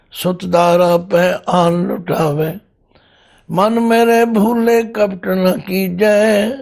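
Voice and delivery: slow, drawn-out verse recitation; measured Gurbani recital with long-held syllables; scripture recitation. Acted. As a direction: recite sacred verse slowly, lingering on each phrase.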